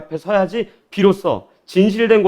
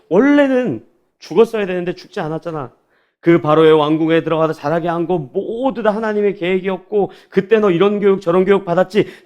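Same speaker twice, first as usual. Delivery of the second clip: tender God. Retold or imitated. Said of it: "이런 거 아니었을까요?".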